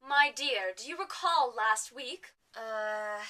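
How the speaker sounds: condescending posh lady, drawn out; Poshnia. Acted. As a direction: remind her with prim patience. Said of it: "we've gotten rid of Poshnia".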